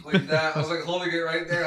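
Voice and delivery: talking while standing up; moving while talking; getting up from chair. Real, not acted. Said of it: "let me get up and show you".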